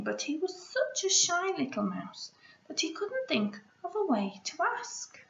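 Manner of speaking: gentle picture book read-aloud; story reading. Acted. Teacher reads picture book aloud.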